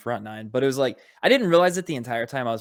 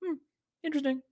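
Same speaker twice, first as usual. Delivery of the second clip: 1 mock intrigued; 6 dB quieter, much faster than usual. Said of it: "I was like".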